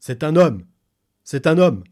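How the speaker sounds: high, loud excited cry; excited shouting. Acted. The ape man announces the newcomer, shouting excitedly. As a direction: blurt it out like an eager ape man. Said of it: "débita mon guide".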